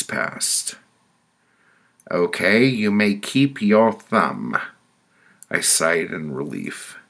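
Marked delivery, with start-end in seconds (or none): 2.1-4.6 loud, high-pitched sentencing; commanding woman, voice raised; committee woman. Acted. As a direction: announce the next penalty as the judging woman. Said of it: "A woman with white curly hair spoke".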